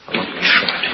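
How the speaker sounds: voiceless, subdued echo; hushed repeat. Real, not acted. Preacher dwelling on Paul's grief at Cyprus, hushed. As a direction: let the voice fall away into breath.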